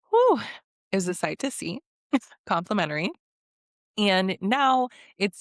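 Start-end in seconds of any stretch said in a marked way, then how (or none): 0.1-0.4 high, loud whistling whew; excited whew. Real, not acted. Recapping Sean pinning girls to the wall, impressed whew. Recalling Sean's steamy make-outs.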